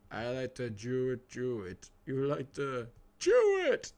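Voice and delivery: hammed-up "Jew it" for "do it"; imitated pronunciation. Teasing Seabird's pronunciation, exaggerated "Jew it". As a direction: mimic "do it" with a j, building to a loud, drawn-out "Jew it". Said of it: "I like the way you say do".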